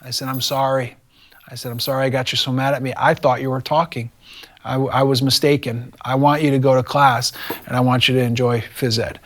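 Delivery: retold calm apology; level, understated calming voice. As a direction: gently talk an upset kid down. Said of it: "I said in a very calm voice".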